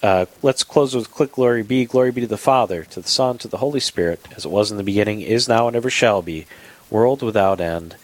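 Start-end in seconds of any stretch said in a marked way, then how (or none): 1.8-8.0 steady recited prayer, slowing to the end; calm spoken prayer voice. Acted. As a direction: lead listeners in a short prayer. Leads the closing Glory Be.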